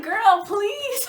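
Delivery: put-on high, loud, sassy girl please; sassy dismissal. Telling Sarah off in the club, loud and sassy. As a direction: brush her off with attitude. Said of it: "I was like".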